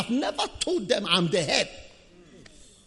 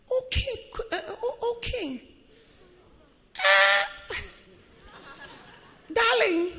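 soft sweet voice; 8 semitones higher, 4 dB quieter, slower than usual. Retold or imitated. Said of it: "your soft voice is necessary".

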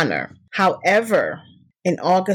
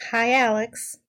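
sarcastic; 5 semitones higher, 3 dB quieter, slower than usual. Real, not acted. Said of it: "Could you say it less sarcastically than that?".

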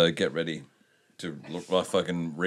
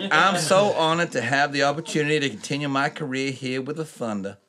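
bad American accent; 5 semitones higher than usual. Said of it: "a terrible American accent".

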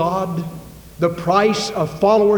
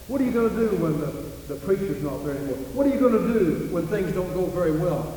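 softer, faster needling questions; taunting doubters; 5 dB quieter than usual. Retold or imitated. Sons of the prophets needle Elisha with quick, soft doubts. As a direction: pepper him with doubts quickly.

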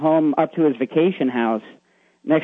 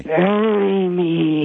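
ghostly voice; 4 semitones higher, much slower than usual. Retold or imitated. Ghost's plea retold again.

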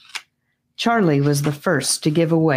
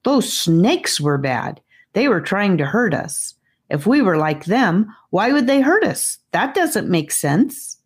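frustrated; 4 semitones higher than usual. Acted. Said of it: "in her most frustrated voice".

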